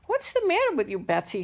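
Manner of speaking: good-natured teacher's question, pitched well up. A narrator's reading. Teacher teasing a pupil who keeps pausing, good-natured. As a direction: ask it with high, amused good nature. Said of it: "laughed out good-naturedly".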